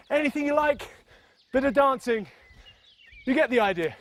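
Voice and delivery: breathless after bouncing; out of breath. Real, not acted. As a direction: talk while catching your breath. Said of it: "Even though I'm out of breath on that".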